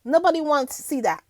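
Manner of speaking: a hint of the singer's dismissive answer; a singer. Host quoting the singer about William's visit, lightly imitated dismissal. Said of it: "that's what Beanie said".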